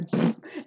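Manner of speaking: short voiceless puff noise; puffed burst of air. Retold or imitated. Someone feeling powerful goes "pff", a short puffed noise. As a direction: blow a quick imitated puff. Imitates judge puffing up with power.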